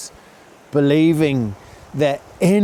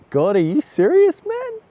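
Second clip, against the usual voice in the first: higher, louder disbelief with a laugh in it; incredulous laughing; 3 dB louder than usual. Retold or imitated. To God, a louder, laughing second disbelief. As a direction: crack up at the absurd sign.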